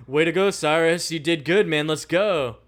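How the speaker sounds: lightly voiced, over-hearty praise; a mildly loud fake-casual cover-up; obvious weird tone. The speaker covering up to Cyrus, in a mild obvious fake tone. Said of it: "in the most weird tone that's clearly obvious".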